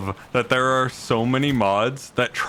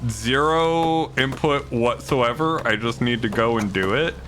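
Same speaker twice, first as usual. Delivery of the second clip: imitating himself, self-mocking; 4 semitones higher than usual. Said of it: "is just the, like".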